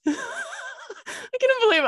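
laughing disbelief. Real, not acted. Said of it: "straight up terrified".

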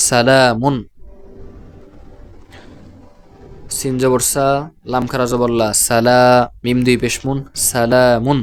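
long "laa" inside সালামুন; spelled-out madd recitation. Shown as a demonstration. Teacher demonstrates word reading, লা in সালামুন drawn out. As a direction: build সালামুন piece by piece, stretching লা. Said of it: "আমি উচ্চারণ করছি".

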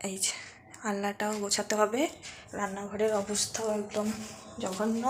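soft, unhurried murmur; speaking softly. Real, not acted. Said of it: "আস্তে আস্তে কথা বলছি".

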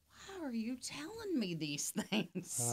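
laughing disbelief. Retold or imitated. Recalls his own bewildered thought.

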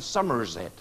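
low Somerset burr; Somerset accent. Shown as a demonstration. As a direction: put on a rural southern English Somerset accent. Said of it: "They speak like that in Somerset".

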